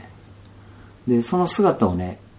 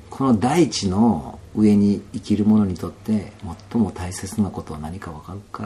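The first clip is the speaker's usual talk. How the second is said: elder's question; slower than usual. Retold or imitated. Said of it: "って聞くんですね".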